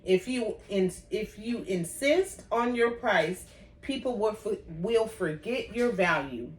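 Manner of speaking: talking around a peppermint; words shaped around a mint in the mouth. Real, not acted. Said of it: "I have a peppermint in my mouth".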